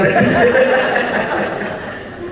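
light breathy chuckle up high; high breathy laugh. Real, not acted. Preacher laughing at his own punchline, airy and high.

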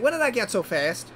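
high voice slipping into Southern; Southern accent. Acted. Engine surprised at his speed, slipping into a Southern accent. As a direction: ask it with a Southern twang. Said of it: "Why do I keep becoming Southern?".

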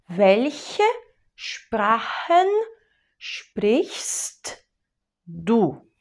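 welche, Sprachen, sprichst, du, with pauses between; word by word. Shown as a demonstration. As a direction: split it into separate words.

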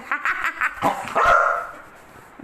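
loud, high burst of laughter; long, high amused laugh; laughing at pet. Real, not acted. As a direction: laugh out loud at a pet's antics. Laughs at pet's climbing.

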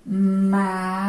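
Ma-ca-co split into three beats; Ma-ca-co, each syllable apart. Shown as a demonstration. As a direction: say Ma-ca-co one syllable at a time.

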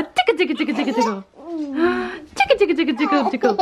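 laughing singsong tickle chant; giggly tickle attack. Real, not acted. Tickling toddler.

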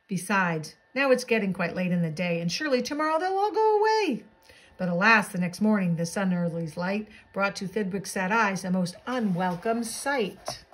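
lilting rhymed picture-book narration; animated bedtime-story reading; storybook read-aloud. A narrator's reading. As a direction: read a rhyming tale to children.

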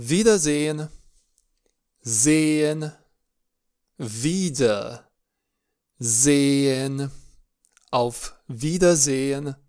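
Wiedersehen split into wieder and sehen; German Wiedersehen. Shown as a demonstration. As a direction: sound out wieder, then sehen, slowly. (Wiedersehen despărțit în silabe)

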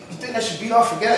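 put-on hushed, hurried kid-like query; quiet like a kid. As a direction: imitate a friend asking timidly like a kid. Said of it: "he gets real quiet like a kid".

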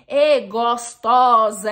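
slow, drawn-out leering catcall; mock catcall. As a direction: drag it out like a street harasser. Imitating street catcall.

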